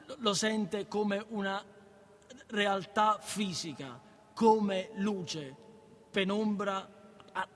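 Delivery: slow, stumbling read of a textbook; careful slow reading; halting reading aloud. Acted. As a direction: read it word by word like a struggling student.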